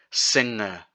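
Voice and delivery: Singer with ng at the back, no hard g; soft ng. Shown as a demonstration. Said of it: "the G sound at the back of the throat".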